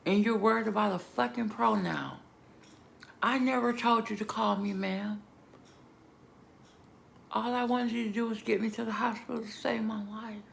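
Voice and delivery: shouting back at the rude paramedic, furious; retold furious outburst. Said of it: "I'm like".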